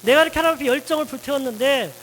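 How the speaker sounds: complaining to God. Acted. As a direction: pour out the grievance, pushing harder each line. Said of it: "하나님 앞에 원망을 퍼붓게 되죠".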